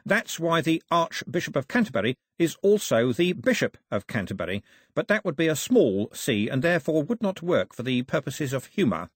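a hint of a fussy scholar; pedantic official. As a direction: explain the fine point earnestly.

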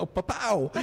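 high-pitched "pa-pow" sound effect; imitated camera snap. Storyteller mimicking the quick photo, high sound effect. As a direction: punch out a high mock snap.

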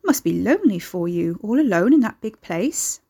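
lightly voiced motherly older woman; a touch of fussing sympathy; maternal concern. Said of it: "asked in tones of maternal concern".

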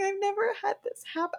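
a touch of past despair retold; mock devastated. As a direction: sound devastated all over again. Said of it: "And I was like".

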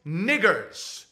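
slow, loud, stiff formal voice; lecturing the friend, slow and stiff; mock stern proper gentleman. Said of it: "I'm like".

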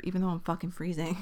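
words around a sip; talking between sips of water; while sipping a drink. Real, not acted. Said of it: "Hold on, I have to take a sip".

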